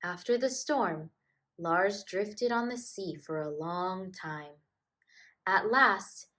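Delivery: gentle, lively storybook reading; reading to children. A narrator's reading. Narrator reads a polar bear tale to children, gentle storybook voice. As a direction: read it like a bedtime picture book. Reads picture book aloud.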